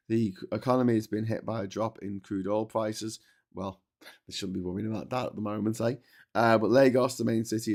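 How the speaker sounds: reading a travel text aloud; guidebook reading. Acted. Vlogger reading a Nigeria guidebook to viewers, lightly formal read.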